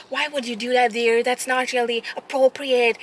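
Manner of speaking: lightly voiced prim old lady; mild mock prim granny. Old lady scolds gently.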